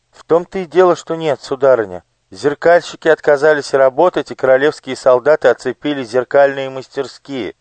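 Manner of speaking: put-on high, eager boyish voice; young page. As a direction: play a nervous child explaining. Elo voiced. (испуганный мальчик-паж, высоко)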